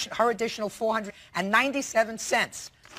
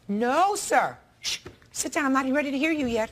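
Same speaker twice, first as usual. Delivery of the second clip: stern rebuke; 4 semitones higher than usual. Real, not acted. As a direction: cut him off sternly. Judge silences the defendant.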